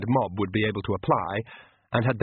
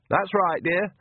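put-on higher old-woman voice, sweetly; fake granny voice; 8 semitones higher, slower than usual. Vampire posing as Nanny to Magrat, higher sweet granny voice. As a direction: coax her like a kindly old granny, pitched up.

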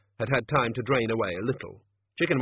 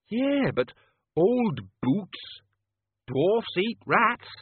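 raised, slow gruff boss; gruff manager voice; 10 semitones higher, 5 dB louder, much slower than usual. Acted. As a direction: voice the grumbling restaurant manager. Manager character voice.

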